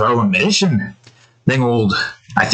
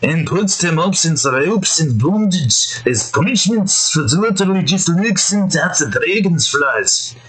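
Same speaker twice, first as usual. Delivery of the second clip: a hint of Scottish brogue to sneak it past the censors; Scottish accent. Ranting to viewers about the show, in a light Scottish accent. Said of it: "I'll say it in an accent so YouTube can't".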